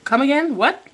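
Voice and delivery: can't believe what she just heard; stunned disbelief. Retold or imitated. Mother hearing her son insult her, high stunned disbelief.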